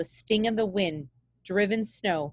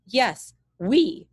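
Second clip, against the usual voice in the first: gruff pilot barks it, louder; barked; 3 semitones higher, 5 dB louder than usual. Acted. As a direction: snap it back at the kid. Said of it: "barked Hank".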